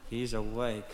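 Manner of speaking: small, hushed voice of a foot; a sleepy body part whispering the alarm; talking foot. Acted. His foot notices he is awake, hushed and small. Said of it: "I heard my foot go".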